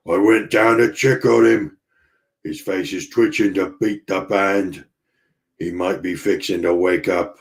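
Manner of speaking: a lightly voiced rough sailor's accent, panting; the cook bursting in, half out of breath, in a mild put-on accent; Lumpy's rough accent. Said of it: "accent, whatever accent that is".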